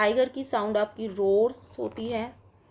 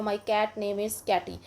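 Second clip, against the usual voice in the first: slow model answer; much slower than usual. Shown as a demonstration. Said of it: "जैसे आप बता सकते हो".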